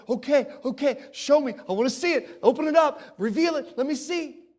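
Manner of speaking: loud, eager plea to be shown; eager John. Retold or imitated. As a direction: urge it, impatient to see the scroll. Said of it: "And John said".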